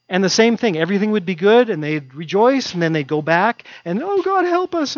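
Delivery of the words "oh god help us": cornered people begging God; desperate pleading. Retold or imitated. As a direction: plead with God to bail them out. People crying out again.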